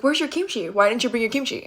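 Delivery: lightly mock someone over their lunch; retold taunt. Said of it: "making fun of me".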